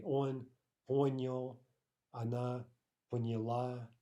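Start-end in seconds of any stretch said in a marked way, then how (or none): 0.9-1.6 понял with stress on по; teacher models понял, stressed по; stress demo. Shown as a demonstration. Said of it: "tricky stress pattern". 3.1-3.9 поняла with stress on the final ла; teacher models поняла, stressed ла; stress demo. Shown as a demonstration. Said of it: "tricky stress pattern".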